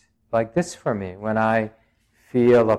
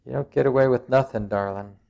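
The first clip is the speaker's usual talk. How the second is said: quick imitation of a German-accented teacher; faster than usual. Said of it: "She had this great German accent".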